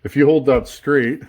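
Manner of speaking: talking with a marker in mouth; speaking around a marker held in teeth; mouth full. Real, not acted. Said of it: "Sorry, I had the marker in my mouth".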